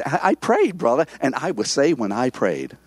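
a light imitation boast, leaning on "I"; stress on I. Preacher imitating a believer who credits himself, stressing "I". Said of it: "it's on me".

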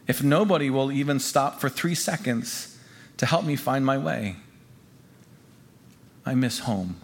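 subdued, weary storytelling; downcast memoir reading. A narrator's reading. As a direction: read it as excitement fading into homesickness. Reads the disheartened part.

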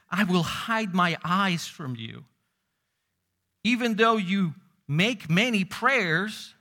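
slow grave scripture reading; slow solemn quote. Acted. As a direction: draw out each word like a solemn verdict. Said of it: "he says".

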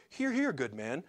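lightly put-on British accent, prim and fussy; mock British drama. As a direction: play it like a tame British period drama, mildly shocked. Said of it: "sounds to me kinda like a dull British drama".

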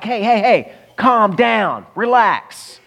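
exasperated onlooker cutting in; urgent hushing. Acted. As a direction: act out a crowd trying to settle someone. Crowd hushing the shouting blind man.

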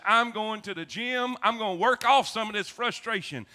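storming off to the gym, fed up; frustrated declaration. Retold or imitated. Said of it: "I said".

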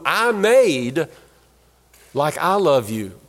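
booming divine first-person declaration; voice of God. Acted. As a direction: speak as God declaring himself. Preacher voices God speaking.

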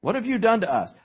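mild acted accusation; blaming. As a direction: throw the blame at someone else. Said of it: "we tend to blame other people".

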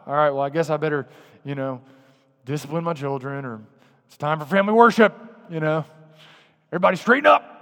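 mock grumbling. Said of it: "muttering things under your breath like".

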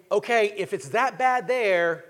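slow, heavy voicing of the worried elders; a hint of elders fearing the worst; elders' despairing wondering. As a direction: mull it over slowly as if all hope is gone. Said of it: "They are wondering".

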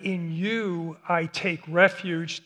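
you leaned on, slow and steady; the you said with weight, slowly; stress on you. Shown as a demonstration. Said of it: "the you is emphatic".

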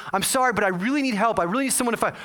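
imitating a frightened caller; retold panicked plea. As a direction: plead in mild, mimicked panic. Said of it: "increasingly scared and panicking".

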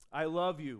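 loving declaration. Acted. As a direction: say it like a hopeful movie lover. Movie lover declares love.

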